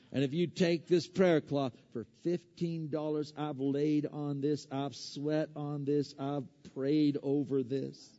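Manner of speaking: mock Southern preacher, soft and unhurried; Southern TV evangelist. Preacher imitating TV evangelists selling a prayer cloth, mock Southern accent. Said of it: "they always have that Southern accent".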